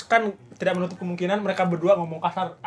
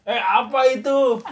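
higher, slow questioning parent; lightly voiced parent; 4 semitones higher, 5 dB louder, slower than usual. Parent overhears child swearing in a game, lightly acted questioning. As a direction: question it like a parent catching a slip.

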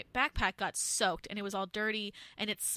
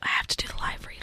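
ASMR whisper. Pretend. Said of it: "A S M R style".

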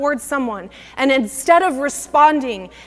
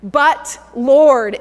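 a touch of a louder protest; mild exclamation; 5 dB louder than usual. Retold or imitated. Ananias protesting to the Lord, mild exclamation. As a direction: exclaim the objection lightly. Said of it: "exclaimed Ananias".

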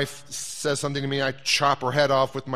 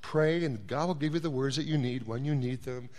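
wife's gentle advice; 5 dB quieter than usual. Retold or imitated. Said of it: "she says something like".

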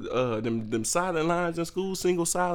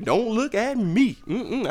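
don't look at me; 7 semitones higher, 3 dB louder, slower than usual. Acted. Refusing to help mom, slower.

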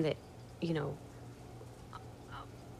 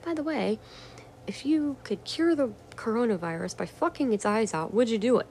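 mocking troll voice; 4 semitones higher than usual. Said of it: "made a comment to me about".

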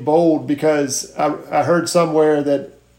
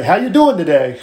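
sincere "How you doing today?", a bit louder and livelier; really mean it; 2 semitones higher, 3 dB louder than usual. Shown as a demonstration. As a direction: ask like you truly care. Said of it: "really mean it".

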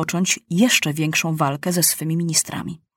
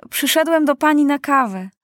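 put-on higher-pitched, friendly boy's line; cheerful announcement of a visit; smiling; 8 semitones higher, 3 dB louder than usual. A narrator's reading. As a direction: say it through a smile. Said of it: "powiedział Maciuś z uśmiechem".

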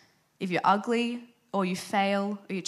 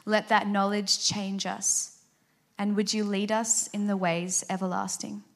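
spoken prayer. Acted. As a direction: pray it aloud for the whole room, gently. Leads congregation in prayer.

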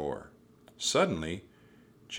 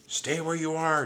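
restrained shout; 10 semitones higher than usual. A narrator's reading. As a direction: call a warning on a high held pitch. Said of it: "Jack shouted".

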